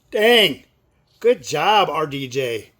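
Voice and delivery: real admiring outburst; impressed exclamation. Real, not acted. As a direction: punch it out, really impressed. Impressed by the actor's accent.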